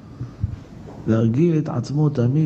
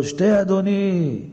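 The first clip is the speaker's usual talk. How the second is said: Rebecca's courtesy; 5 semitones higher, slower than usual. Retold or imitated. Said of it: "רבקה אמנו".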